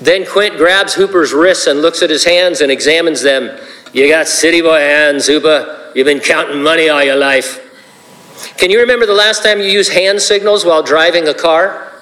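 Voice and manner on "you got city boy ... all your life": put-on gruff Irish accent, lightly done. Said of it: "It's my best Irish accent".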